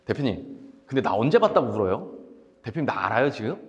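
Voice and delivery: low-pitched, unmoved questioning; retold cool put-down, pitched low; cold rebuke. Acted cold rebuke of crying client. (낮고 냉정하게 따지는 말투)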